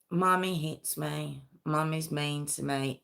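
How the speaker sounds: put-on a touch of a crushed boy reciting lines; defeated, subdued. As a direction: say it like a beaten-down child. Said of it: "the whole tone had changed".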